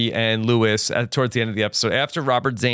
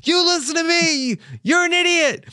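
furious shout. Retold or imitated. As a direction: shout him down. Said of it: "he's like".

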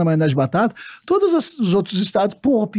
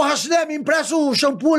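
higher-pitched casual holler; calling to a mate; 7 semitones higher than usual. Acted. Barracks mate asking Raciné for shampoo, calling out. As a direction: call across for a favour. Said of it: "o pessoal".

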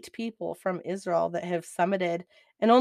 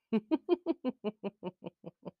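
soft laugh; 2 semitones higher, 6 dB quieter than usual. Real, not acted. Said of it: "I'm laughing so hard".

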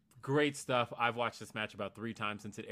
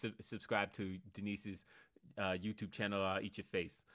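half-hearted Tyson; 4 dB quieter than usual. Pretend. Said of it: "say subscribe with Mike Tyson's voice".

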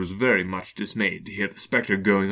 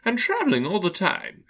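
wailing ghost; 11 semitones higher than usual. Acted. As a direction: moan it like a tormented spirit.

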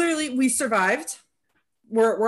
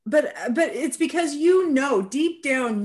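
laughing through the words, higher and louder; 6 semitones higher, 5 dB louder, slower than usual. Real, not acted. Host laughing at the surgery story, laughing. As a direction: laugh it out as you start.

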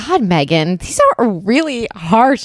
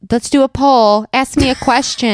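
mock eager guy; 5 semitones higher than usual. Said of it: "they're like".

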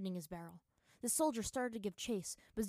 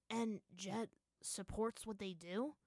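unsure; slower than usual. Acted. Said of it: "Zuko asked unsurely".

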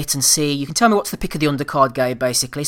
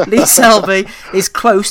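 louder repeat over the wind; raised voice over wind; 5 semitones higher, 7 dB louder, slower than usual. Real, not acted. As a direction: say it again, pushing past the wind. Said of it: "I can't hear you with the wind".

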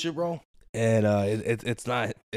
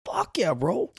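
whisper; 3 semitones higher, slower than usual. Real, not acted. Whispered agreement.

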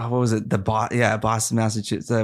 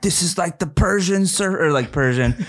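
surfer dude voice; 7 semitones higher than usual. Retold or imitated. Imitating his first impression.

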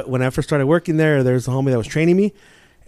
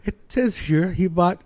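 higher fake-British debt collector; British accent; 4 semitones higher, 6 dB louder than usual. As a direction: prank caller's mock British officialese. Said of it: "I did it like a British accent".

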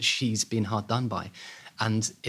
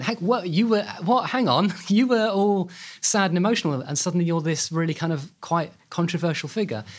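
much higher, laughing disbelief; incredulous outcry; 8 semitones higher, 3 dB louder than usual. Retold or imitated. The public reacts to Margaret's transformation, incredulous. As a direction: gasp at the sudden change, half laughing. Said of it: "And everyone went".

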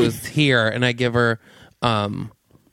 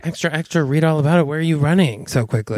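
a bit higher chirpy paperboy call; newsboy cry; 4 semitones higher, faster than usual. Retold or imitated. Lewis catches up with Claudia, hawking headlines. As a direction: sing it out then ask. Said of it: "And he's like".

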